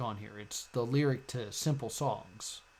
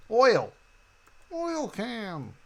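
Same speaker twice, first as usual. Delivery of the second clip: excited guess; 9 semitones higher, much slower than usual. Real, not acted. Guessing puzzle answers aloud.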